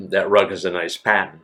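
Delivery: New England accent, "pattern" without its R; childhood New England accent. Shown as a demonstration. Showing how they spoke as a kid, New England accent. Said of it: "what I would say as, in a kid".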